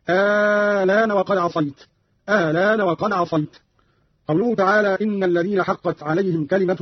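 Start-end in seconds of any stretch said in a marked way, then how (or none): 0.1-1.8 آه الآن with a long drawn first aa, running into "laan"; ibdal with naql. Shown as a demonstration. Teacher shows Qalun's first way, الآن as long "aaa-laan". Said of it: "فيها الإبدال وفيها التسهيل مع القصر مع النقل". 2.3-3.6 الآن with a shorter, softened opening, "a-laan"; eased, shortened hamza. Shown as a demonstration. Teacher shows the second way, الآن with an eased short opening. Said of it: "وفيها التسهيل مع القصر مع النقل".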